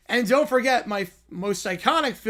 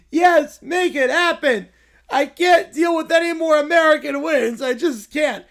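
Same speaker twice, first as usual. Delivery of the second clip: Caillou yell; 3 semitones higher, 5 dB louder than usual. Acted. Caillou yelling.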